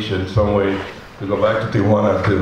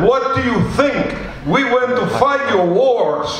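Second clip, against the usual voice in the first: retold defiant reply; 10 semitones higher than usual. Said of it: "And I said".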